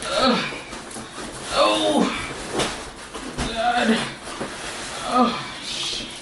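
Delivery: carrying heavy load. Real, not acted. Lifting heavy box.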